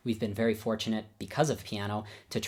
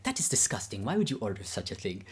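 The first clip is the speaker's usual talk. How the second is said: imitated Babayan accent, mildly appalled. Teacher tasting non-alcoholic beer, mock disgust in imitated Babayan accent. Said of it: "I'll do my best Babayan accent".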